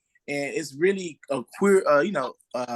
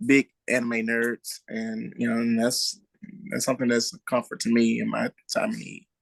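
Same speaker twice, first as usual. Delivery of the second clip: hoarse, groggy real voice; 2 semitones lower than usual. Real, not acted. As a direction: talk through a groggy worn-out voice. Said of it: "my voice is very groggy".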